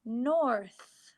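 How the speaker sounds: "North" said as one smooth word after the split version; blended whole word. Shown as a demonstration. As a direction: join the sounds of "North" back into one word. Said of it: "N or th".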